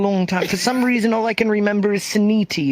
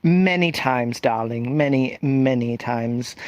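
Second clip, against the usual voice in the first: campy drag queen; 5 semitones lower than usual. Pretend. Answers in character voice.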